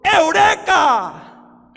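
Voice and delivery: long, drawn-out shout, high and loud; slow triumphant cry of discovery; shouted Eureka. Retold or imitated. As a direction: bellow it slowly like a man who just found it. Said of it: "él gritó".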